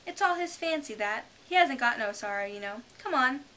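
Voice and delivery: high, loud, quick common creature voice; rough griffin. A narrator's reading. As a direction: bark it like a cheeky griffin.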